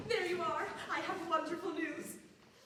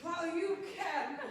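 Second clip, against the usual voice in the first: muffled line. Acted. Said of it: "Can't quite make out what she says".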